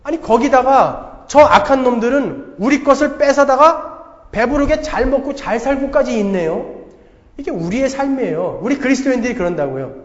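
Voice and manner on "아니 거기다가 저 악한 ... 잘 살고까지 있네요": 따지는 하박국. Acted. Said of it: "하박국이 지금 따지는 거예요".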